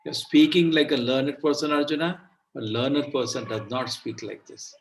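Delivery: gentle, unhurried scolding; soft scold. Shown as a demonstration. Krishna gently scolding Arjuna, soft and unhurried. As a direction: scold softly, bending but not breaking. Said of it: "See, what a soft way to scold".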